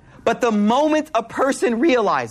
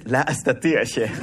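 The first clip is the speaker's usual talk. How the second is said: mock reluctant sheikh; 10 semitones lower than usual. Retells a sheikh refusing, laughing.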